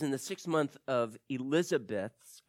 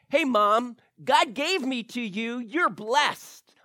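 mock child voice; 8 semitones higher, 7 dB louder, slower than usual. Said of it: "what they're saying is".

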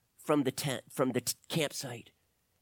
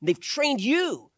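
raised, high, forceful appeal; urgent plea; 6 semitones higher, 7 dB louder than usual. A narrator's reading. Doctor appeals to young man holding gun, urgent. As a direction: press him hard to listen. Doctor pleads with gunman in story.

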